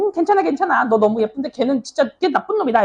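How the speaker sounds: imitating girls comforting a friend, pitched high; high-pitched mock sympathy for a dumped friend; consoling girlfriend. 여자애들 위로하는 장면 연기.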